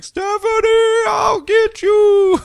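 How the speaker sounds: very high, slow shouted threat; villain shout. Retold or imitated. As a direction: bellow a cartoon villain's vow. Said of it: "he's like".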